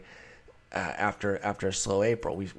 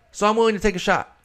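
pitched way up and louder, rushed and eager; emphatic declaration; 10 semitones higher, 6 dB louder, faster than usual. Real, not acted. To his listeners, pumped up about buying Bregman, loud and fast. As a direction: sell the bold pick with a burst of excitement. Repeats the claim with more force.

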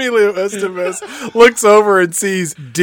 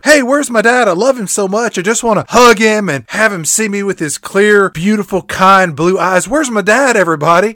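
put-on eager kid voice; 4 semitones higher, 3 dB louder, faster than usual. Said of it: "Deke then asks again".

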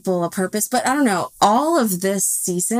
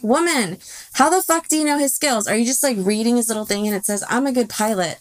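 pitched-up disbelieving rant; incredulous retort; 3 semitones higher, faster than usual. Retold or imitated. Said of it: "And I'm like".

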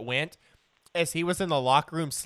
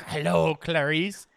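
Hannibal Lecter impression; slower than usual.

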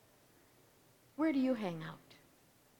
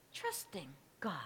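trusting God said much softer and lower; quiet, low trusting God; 4 semitones lower, 10 dB quieter than usual. Shown as a demonstration. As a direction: let it fall away quietly. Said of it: "preacher repeats the choice".

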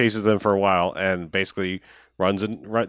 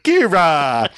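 caveman grunt; 6 semitones higher, 5 dB louder, much slower than usual. Retold or imitated. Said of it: "people going".

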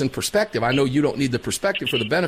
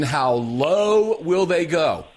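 slow emphatic; much slower than usual. Real, not acted.

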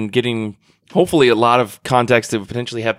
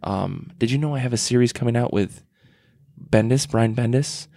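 soft-spoken David Mack; 2 semitones lower than usual. Retold or imitated. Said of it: "most soft-spoken person in the world".

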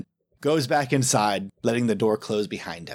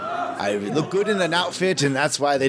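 vain flirt. Acted. Plays flirtatious vain Gregor.

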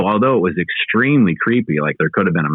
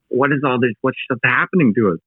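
on the verge of freaking out; 6 semitones higher than usual. Retold or imitated. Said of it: "on the verge of freaking out myself".

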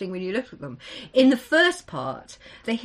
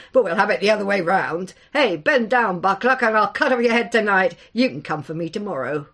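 fast, louder, swaggering boast; cocky, grinning; 6 dB louder than usual. Acted. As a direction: brag it off quickly with a grin. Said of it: "he grinned".

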